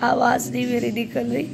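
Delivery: tired, slightly hoarse voice. Real, not acted. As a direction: talk with a worn-out throat. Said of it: "मेरी आवाज़ भी बैठ चुकी है".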